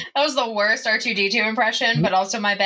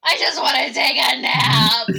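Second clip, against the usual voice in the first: whiny sleepy plea; 10 semitones higher than usual. Acted. Sleepy player whines for nap.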